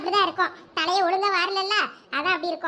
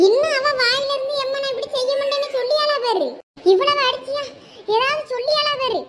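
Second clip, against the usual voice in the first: higher, furious yelling; enraged shouting; 4 semitones higher, 3 dB louder than usual. Acted. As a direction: rage at her stubbornness. Mother enraged, still beating.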